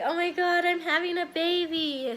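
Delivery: put-on a touch of joy at having a baby; happy. Recalling her own thoughts on seeing the baby, mildly excited. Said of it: "I was happy".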